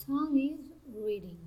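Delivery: two beats, on "Tom" and "reading"; two-stress statement. Shown as a demonstration. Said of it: "Statements with two stresses".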